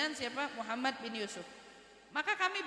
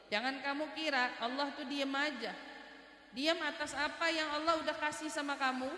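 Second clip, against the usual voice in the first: raised, forceful admonishing; preaching rebuke; 2 semitones higher than usual. Real, not acted. Preacher warning those who will not share, rising rebuke. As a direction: build into a pointed scolding from the pulpit.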